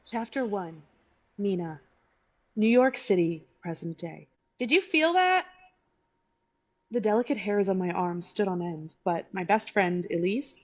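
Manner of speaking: clear, even audiobook reading; story narration. Shown as a demonstration. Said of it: "Your best narrator voice".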